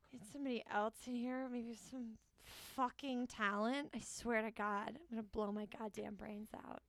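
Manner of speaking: low-energy, quiet grumble; soft, weary complaint to oneself; fed-up casting director. Acted. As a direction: grumble under your breath, exasperated. Acted casting director, fed up with auditions.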